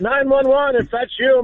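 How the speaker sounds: a hint of Shatner making a mock emergency call; William Shatner impression. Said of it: "William Shatner calling".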